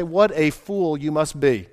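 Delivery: mocking devils. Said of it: "They mock God and say".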